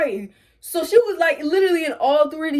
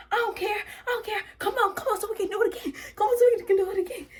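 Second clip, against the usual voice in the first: laughing retold dare; 8 semitones higher, 5 dB quieter, faster than usual. Retold dare to fight again.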